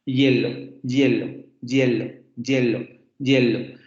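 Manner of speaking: HIELO with a Y glide leading in, "YEH-lo"; approximant before I. Shown as a demonstration. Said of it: "tenemos ese fonema antes de la I".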